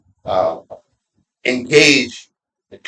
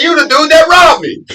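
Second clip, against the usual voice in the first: high, mock-accusing callout; mock accusation; 6 dB louder than usual. Joking to a brother at the funeral, high mock accusation. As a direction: tease him as the thief, pitched up. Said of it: "I said".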